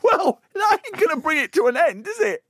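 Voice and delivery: high, loud protest through laughter; incredulous laughing. Real, not acted. Co-host reacting to the ugly-baby story, real incredulous laughter. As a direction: crack up while objecting, voice shooting up.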